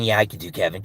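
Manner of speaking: lightly voiced Kevin. Answering chat in a low Kevin voice. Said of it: "can I do Kevin".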